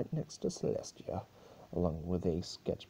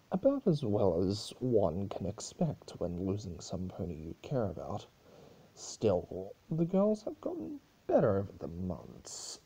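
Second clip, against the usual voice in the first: lightly voiced mocking chaos spirit; Discord teasing. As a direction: tease her with fake sweetness. Discord reports on the girls.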